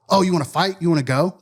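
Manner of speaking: lightly voiced drunk fan calling someone out; mocking taunt. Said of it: "amplify, like, what he was saying".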